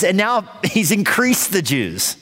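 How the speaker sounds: high, slow, laughing through the words. Real, not acted. Preacher to congregation, amused at Haman's undoing, laughing. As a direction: chuckle at the irony of it.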